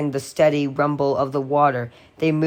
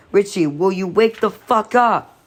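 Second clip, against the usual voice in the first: raised higher, a touch of a shaky plea; desperate half-yell, voice on the edge; 5 semitones higher than usual. A narrator's reading. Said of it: "Ben's voice was blurring now, becoming shaky".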